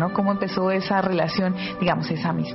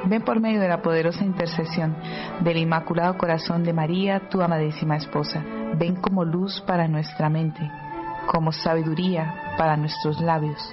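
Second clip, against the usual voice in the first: spoken prayer. Real, not acted. Host invoking the Holy Spirit for the listeners, praying. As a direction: pray it aloud, phrase by phrase.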